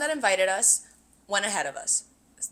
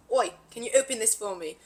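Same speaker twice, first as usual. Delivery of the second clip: put-on Australian accent; lightly mocked Aussie request; Tynan. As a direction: imitate an Australian asking a favour. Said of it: "takes the White Claw back and goes".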